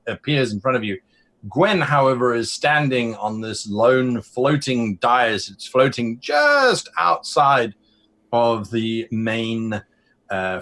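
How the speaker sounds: emphatic, dramatic scene setting; game master revealing a wonder; game master narration. Acted. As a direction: paint the scene for the players.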